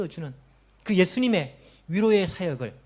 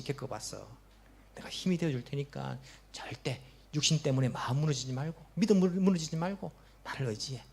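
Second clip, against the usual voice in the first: the Lord comforting the sick believer; comforting Jesus voice. Acted. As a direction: start hushed, then promise firmly. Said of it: "주님께서 위로하십니다".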